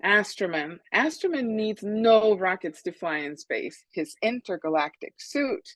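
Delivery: put-on lively picture-book reading to children; story read-aloud. A narrator's reading. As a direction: read it out with emphatic key words. Author reads her story to children.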